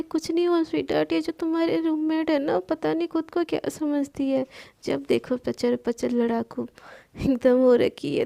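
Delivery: quick, lightly sugary tone; sweet to Sana. Acted. Manya sweetly reassures Sana while mocking Palak, mild. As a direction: coo at her friend, sneer at the roommate. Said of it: "प्यार से एकदम सना को बोलती है".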